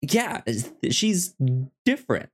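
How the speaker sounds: high, light mock musing from him; mock realizing. He notices her, mock high musing. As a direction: voice his half-curious notice, pitched high. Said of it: "he's like".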